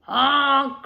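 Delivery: scared honk. Acted. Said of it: "cried the dump truck".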